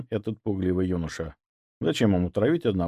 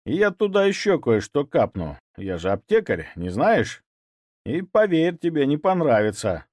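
sinister tone; 4 semitones higher than usual. Acted. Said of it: "добавил зловещим тоном".

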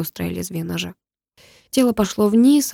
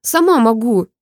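higher, louder stubborn protest; defiant cry; 5 semitones higher, 4 dB louder, slower than usual. Acted. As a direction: insist through the struggle. She refuses help. (упрямый выкрик)

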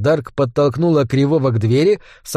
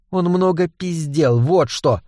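growled; 2 semitones higher, slower than usual. Acted. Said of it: "рыкнула Дарк".

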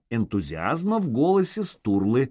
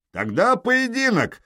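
much higher, slow yelled challenge; 12 semitones higher, 3 dB louder than usual. A narrator's reading. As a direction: bellow the challenge up the wall. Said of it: "заорал он". (громко выкрикнуть вызов)

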